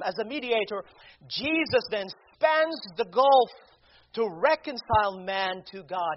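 ordinary delivery

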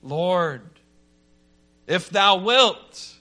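mild preacher's imitation of a cry. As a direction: call out slowly to the Lord, pleading. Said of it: "The leper cries out".

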